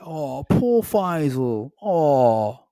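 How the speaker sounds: slow, high, wailing fake sob; milk it like a sad violin tune; mock crying. Girlfriend mocking his self-pity, hammed-up fake crying. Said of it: "made, like, a violin".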